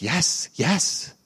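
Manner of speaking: breathy, excited yes yes; hushed, thrilled insistence; awed whisper. Retold or imitated. Fan insists it's a famous singer.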